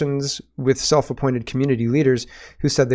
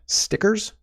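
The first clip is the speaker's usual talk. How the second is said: incredulous; 9 semitones higher than usual. Real, not acted. Incredulous at prison for stickers.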